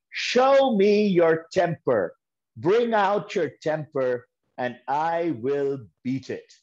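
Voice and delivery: put-on a fierce old master calling the temper out; booming dare, word by word; stern challenge. A narrator's reading.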